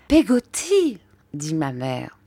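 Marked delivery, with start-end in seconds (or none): 0.1-1.0 high, lightly surprised answer; questioning answer. A narrator's reading. Mother names her servant to Miss Betsy, high-voiced. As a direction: say Peggotty high, then let it fall.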